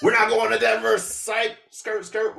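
high-pitched, hammed-up last-minute switch; mock sudden swerve. Driver swerving away from Denver, high mock excitement. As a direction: act out a cartoonish change of course. Acted swerve at the highway fork.

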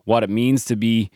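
put-on light Minnesota accent Raul. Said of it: "with a North Minnesota accent".

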